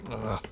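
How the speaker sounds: short exasperated groan; annoyed groan. Acted. Host fed up with stupid questions, annoyed groan. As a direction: groan at the nuisance.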